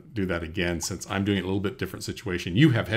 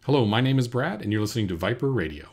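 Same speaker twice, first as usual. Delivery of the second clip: projected station ident, higher and louder opening; radio host; 3 semitones higher, 5 dB louder than usual. Pretend. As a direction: announce it to the radio audience. Final take of station ID.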